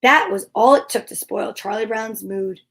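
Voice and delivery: gentle read-aloud storytelling voice; story narration. A narrator's reading. Host reading a Charlie Brown Christmas story to viewers, storytelling voice. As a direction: read it like a bedtime story for kids.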